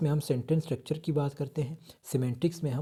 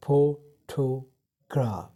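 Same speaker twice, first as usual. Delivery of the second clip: photograph very slow, first syllable pho louder; stress on PHO; 5 dB louder, much slower than usual. Shown as a demonstration. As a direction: lean hard on pho in photograph, slowly. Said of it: "फो पे आपने ज़्यादा stress देना है".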